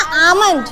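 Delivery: आमंड with the L left out; silent L. Shown as a demonstration. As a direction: teach आमंड, no L before the M. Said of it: "ये इसकी जो correct pronunciation होती है".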